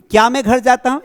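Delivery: teacher asks the sample question brightly. Shown as a demonstration. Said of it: "इसको ऐसे बनाएंगे".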